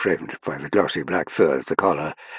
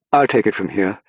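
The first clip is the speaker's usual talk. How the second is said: louder, higher upper-class English voice; upper-class English accent; 4 semitones higher, 7 dB louder than usual. A narrator's reading. Young Englishman taking over from the sergeant, upper-class English accent. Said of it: "in an upper-class English accent".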